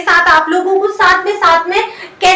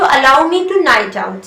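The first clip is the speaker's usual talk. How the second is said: very slow, deliberate English model; slow teaching read; slow demo; 4 semitones lower, much slower than usual. Shown as a demonstration. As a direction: stretch every word so students copy it. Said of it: "तो".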